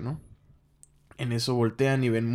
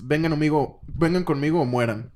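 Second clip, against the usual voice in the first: louder, higher villain order; commanding threat; 4 semitones higher, 4 dB louder than usual. Retold or imitated. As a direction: bark the ultimatum down at them. Conquest orders them along.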